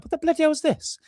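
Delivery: high incredulous outburst. Retold or imitated. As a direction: blurt it out in disbelief. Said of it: "I'm just like".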